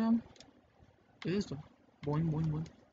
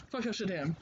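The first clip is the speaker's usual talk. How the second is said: laughing; 3 semitones higher than usual. Shown as a demonstration. Repeating the swears for Jess, laughing. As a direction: curse list with a laugh running through it. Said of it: "Here you go, Jess".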